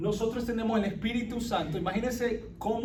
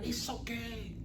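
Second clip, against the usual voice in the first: mock brush-off; 3 semitones higher, 10 dB quieter, slower than usual. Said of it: "Ese es un problema que tenemos".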